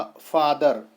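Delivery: फादर in two distinct beats, फा then दर; split into syllables. Shown as a demonstration. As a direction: sound out both syllables of फादर, फा and दर. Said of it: "इसमें दो syllables पाए जा रहे हैं".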